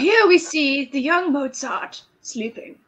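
lightly voiced nature documentary narrator, slow; hushed documentary narration, a hint of Attenborough; a touch of nature-show narrator. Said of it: "commentate it like Attenborough".

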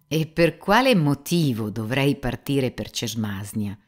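a bit taken aback, push the question; surprised. Acted. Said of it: "si meravigliò Ivan Fiodorovich". (stupito, più forte e lento)

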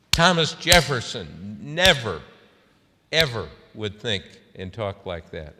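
loud name, heavy pauses, retold indignation; intense. Senator citing past presidents to a reporter, intense. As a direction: imitate someone driving a point home. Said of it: "She really got, uh, intense".

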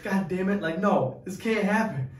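high, loud protest; retold exasperation. Groom fighting tears at the altar, loud retold exasperation. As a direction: protest loudly against your own tears.

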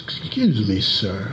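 a hint of a Latino cab driver's accent, politely asking. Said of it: "he says with a thick Latino accent".

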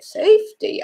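indignant surprise. Retold or imitated. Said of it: "And I said".

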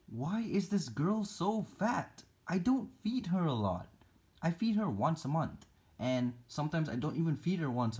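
playful high-pitched scolding of pet tarantula; mock scolding. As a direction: scold your chubby spider. Mock scolding fat spider.

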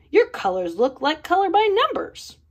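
hammed-up storybook spite; spat out. A narrator's reading. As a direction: spit the words at your rival. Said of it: "Picasso spat".

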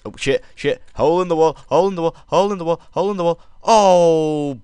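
high, loud, frantic repeated shouts; panicked shouting. Real, not acted. Player hit by boss attack, panicked shouting. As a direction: yell it over and over, ending in a long wail.

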